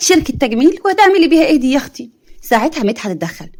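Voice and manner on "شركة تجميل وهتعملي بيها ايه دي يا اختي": mocking disbelief. Aunt mocks the job news.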